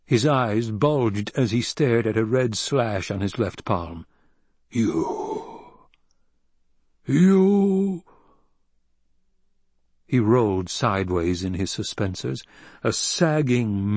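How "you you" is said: from a gasp up to a shriek; dying accusation. A narrator's reading. Poisoned Baron shrieking at Alia as he dies.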